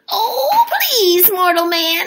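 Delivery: very high pleading little voice; pleading leprechaun. A narrator's reading. Leprechaun begging the mortal man for freedom, high and pleading. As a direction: beg sweetly like a tiny trickster. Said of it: "he pleaded".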